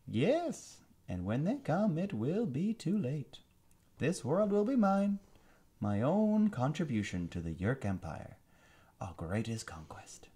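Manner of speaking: high, slow sneering alien villain. Acted. Alien commander gloating over captured prince, high sneering villain voice. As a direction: savor every word like a gloating tyrant. Visser voice.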